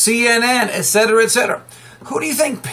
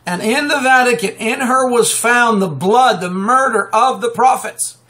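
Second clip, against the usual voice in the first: scripture reading. Acted. Reads scripture aloud.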